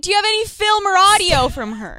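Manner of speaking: high and loud pleading; mock eager plea. Girl asking for film of the ex, hammed-up eagerness. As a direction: beg for the tape, over the top. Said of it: "I'm like".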